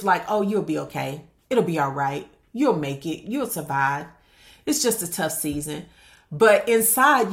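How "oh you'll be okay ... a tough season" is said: mildly dismissive, low-key reassurance. Acted. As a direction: brush it off with easy platitudes. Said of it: "the response is very dismissive".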